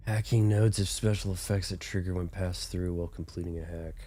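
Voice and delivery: stuffy, congested sick voice. Real, not acted. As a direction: talk through a head cold. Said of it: "The sick sounding voice sounds cool".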